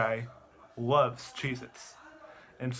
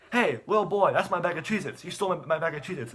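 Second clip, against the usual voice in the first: mock angry accusing; 3 semitones higher than usual. Guy confronts boy over chips.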